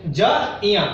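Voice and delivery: ज इया drawn out slowly, sound by sound; slow breakdown. Shown as a demonstration. Teacher slowly breaking ज्ञ into sounds for students. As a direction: spell out ज इया slowly, part by part. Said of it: "यही पढ़ लेते हैं आपकी सुविधा के लिए".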